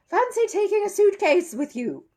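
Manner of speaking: high, loud exasperated magician; a cross showman biting out each word; furious but keeping it down for the audience; hissed. Acted. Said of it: "he hissed".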